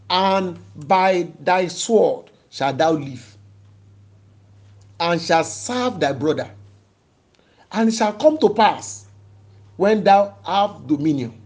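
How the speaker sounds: measured, declamatory Bible reading; scripture reading. Real, not acted. Preacher reading Genesis to the congregation, solemnly declaiming. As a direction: proclaim the verse in weighty, separated phrases. Reads the verse aloud to congregation.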